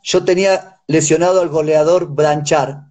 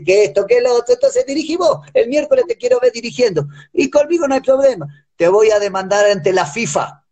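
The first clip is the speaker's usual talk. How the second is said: higher, scornful retold rant; heated mocking retort; 3 semitones higher than usual. Coach retelling his heated taunt to the president, higher scorn. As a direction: taunt him to coach himself, pitched higher.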